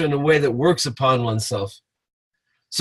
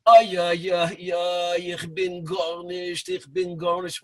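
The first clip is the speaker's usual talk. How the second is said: put-on old world Yiddish murmur; slower than usual. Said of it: "give it the old world flavor".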